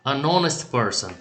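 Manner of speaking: "honest" said with no H, linked to "An"; silent H. Shown as a demonstration. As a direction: leave the H mute in "honest". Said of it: "porém essa consoante é muda". ("honest" com H mudo, ligado ao "An")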